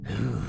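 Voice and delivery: long hissed "ooh"; low hiss. A narrator's reading. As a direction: let out a low, impressed hiss. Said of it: "let out a low hiss".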